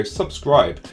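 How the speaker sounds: SUBSCRIBE said as two distinct beats. Shown as a demonstration. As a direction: say subscribe almost as two words, sub and scribe. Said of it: "sounds like two words almost, or, like, two beats".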